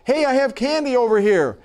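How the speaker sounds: put-on high, eager call to children; volunteer calling out. A narrator's reading. Volunteer luring excited orphanage children, high mimicked call. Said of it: "another volunteer contributed".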